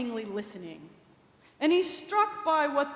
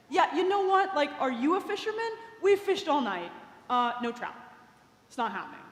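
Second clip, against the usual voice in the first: annoyed; 3 semitones higher than usual. Acted. Tired fisherman snapping at the rabbi, annoyed. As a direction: snap back at a know-it-all. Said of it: "really annoyed".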